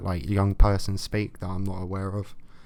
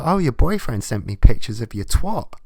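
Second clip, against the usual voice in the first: 1 mock snitch; 7 dB louder than usual.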